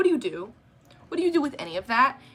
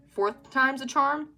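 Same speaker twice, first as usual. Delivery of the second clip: snide slow jab; 4 semitones higher, slower than usual. Retold or imitated. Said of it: "evil style".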